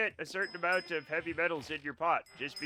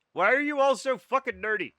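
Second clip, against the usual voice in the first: high, loud exasperated yell at chat; exasperated outburst; 7 semitones higher, 8 dB louder than usual. Real, not acted. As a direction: throw your hands up and yell it, half laughing.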